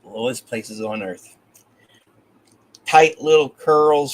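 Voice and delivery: measured, even poetry recital; poem reading. A narrator's reading. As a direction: read the poem with pauses at line breaks. Reads a second poem aloud.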